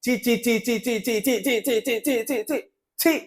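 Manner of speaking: repeated soft chee of disgust; disgusted tutting. Real, not acted. Vlogger scorns the contestant, chanting chee in disgust. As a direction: scoff it in contempt, over and over. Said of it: "ఈవిడికి చెప్తున్నాను భయ్యా".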